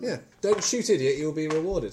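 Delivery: bad German accent. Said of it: "that appalling German accent".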